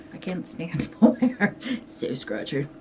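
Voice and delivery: laughing through a complaint. Real, not acted. Vlogger on yarn she can't stand, laughing. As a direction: let a laugh break into the words. Laughs about hating mohair.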